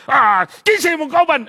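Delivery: spring the question to startle; teacher startling. Retold or imitated. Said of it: "Kusog kay manggulat". (kusog nga pangutana sa maestro)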